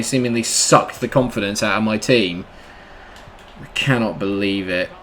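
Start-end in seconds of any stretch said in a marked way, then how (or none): none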